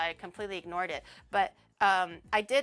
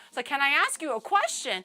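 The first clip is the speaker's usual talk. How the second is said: nervous; 5 semitones higher, 5 dB louder than usual. Retold or imitated. Tense retold message.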